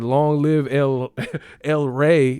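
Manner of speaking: slow line broken by laughter; lightly mocked Spanish dub. Retelling the dubbed line to friends, half laughing. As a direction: repeat the dub line while cracking up. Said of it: "motherfucker said".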